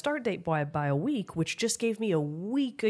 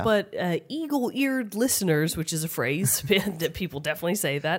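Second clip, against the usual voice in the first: stuffy nose from a cold; stuffed up. Real, not acted. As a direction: talk through a blocked nose. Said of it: "I sound a little stuffed up".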